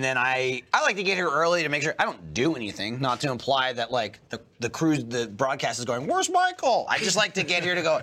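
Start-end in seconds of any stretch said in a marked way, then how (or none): 6.1-6.9 high, mock-panicked crew asking. Imitating the broadcast crew wondering where Michael is, mock panic. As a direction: squeak it out like a worried producer.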